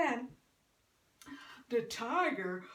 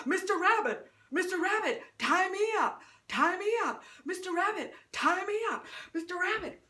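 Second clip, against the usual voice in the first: calling out; 5 semitones higher, faster than usual. Acted. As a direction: call out to the rabbit, begging. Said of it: "he calls out to Mister Rabbit".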